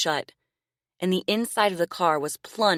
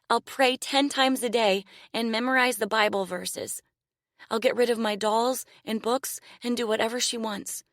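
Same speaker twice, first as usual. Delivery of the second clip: put-on desperate child's prayer; 6 semitones higher than usual. A narrator's reading. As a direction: bargain with God in fear. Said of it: "she prayed".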